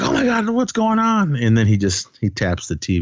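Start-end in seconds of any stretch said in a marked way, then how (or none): 0.0-1.4 high-pitched imitation of alarmed victims; mock panic. Voicing the taped-up people's fright, mock panicked.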